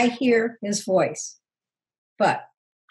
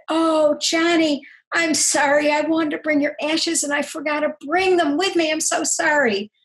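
mild apology; 5 semitones higher than usual. Retold or imitated. Mother retells apology to dead son.

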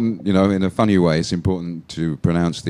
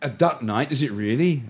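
high questioning echo of DARK as DUCK; mock disbelief; 6 semitones higher, 4 dB quieter than usual. Teacher querying the student's slip, mock disbelief.

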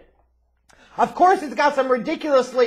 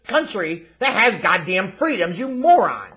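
ordinary delivery

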